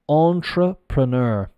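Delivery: "Entrepreneur" drawn out as AHN-truh-pruh-NUR; anglicised French pronunciation. Shown as a demonstration. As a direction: say "Entrepreneur" slowly, French word with English sounds. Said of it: "it's the French pronunciation, but in an English accent".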